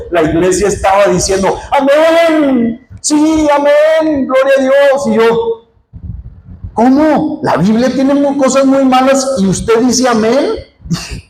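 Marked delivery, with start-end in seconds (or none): 1.7-5.1 high, drawn-out amens; mock congregational fervor. Imita a la congregación exclamando amén. 6.7-10.4 higher, indignant questioning; acted incredulity. Reproche incrédulo actuado a la iglesia.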